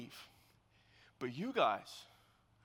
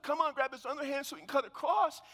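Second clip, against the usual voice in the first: higher, louder mom calling out; imitated yell; 7 semitones higher, 5 dB louder than usual. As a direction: imitate a mother yelling to her husband. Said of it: "yells out at her husband".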